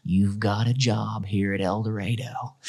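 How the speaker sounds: a light impression of an easygoing old superintendent; lightly voiced small-town school boss making an offer; Gary's cadence. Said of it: "that was kind of the cadence of his voice".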